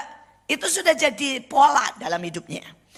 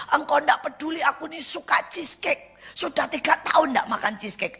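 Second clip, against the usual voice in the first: raised-pitch pleading complaint; imitated crying prayer; 5 semitones higher than usual. Friend complaining to God about cheesecake, mild mock lament. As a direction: retell a lightly tearful protest. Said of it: "saya baru nangis sama Tuhan".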